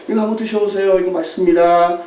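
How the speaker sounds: mild, courteous model of offering food; polite offering. Shown as a demonstration. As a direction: show how to offer it nicely. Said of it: "이렇게". (차분하고 공손하게 권하는 시범)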